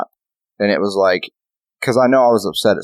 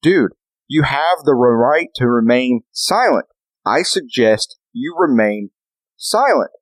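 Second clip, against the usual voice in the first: slow warning, last silent jumping high; mock cop getting fed up; losing patience; 4 semitones higher, slower than usual. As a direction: spell it out slowly, patience wearing thin. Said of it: "that cop's like".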